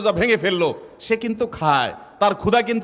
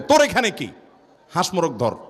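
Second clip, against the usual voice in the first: mock scolding, pitched up on the opening question. Grandparents shooing away the child who broke the fast, mock scolding. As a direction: act out a grandparent's brusque telling-off. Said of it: "দাদা এক ধমক দেয়".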